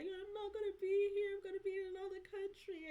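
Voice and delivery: loud, high, badly done British accent. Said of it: "that's a bad accent".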